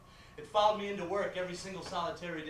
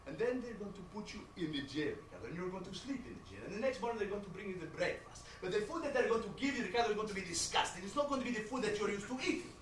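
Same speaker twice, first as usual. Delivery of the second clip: a hint of accented mom; walk him through it like a concerned mother; lecturing mother; 3 semitones lower, 6 dB quieter than usual. Mother telling her son about jail life, lecturing.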